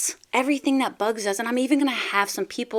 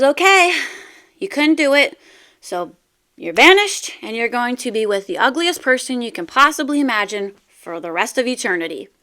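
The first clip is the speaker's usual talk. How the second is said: God's booming verdict; 5 dB louder than usual. Acted. God banishes second man.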